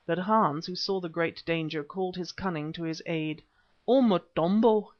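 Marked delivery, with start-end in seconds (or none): 3.9-4.9 high, loud, squeaking cry; squeaky voice. Acted. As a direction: squeak out a frightened plea. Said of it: "he squeaked".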